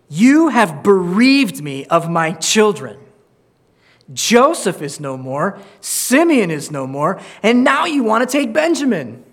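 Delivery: rough, aggrieved father's reproach; speaking roughly. Acted. Jacob blaming his sons for bereaving him, speaking roughly. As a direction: blame your sons, with building force. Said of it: "now he's speaking roughly to his sons".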